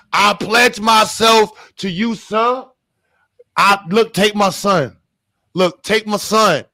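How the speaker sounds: loud, high, hammed-up begging; pleading Irish father. Begging sir to take his son, loud mock-desperate plea. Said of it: "I don't know how to do your accent".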